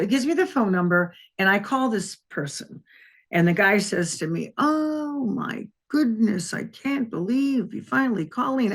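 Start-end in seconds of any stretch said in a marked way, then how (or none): 4.6-8.7 relieved caller voice. Retold or imitated. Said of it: "this person with this very low voice".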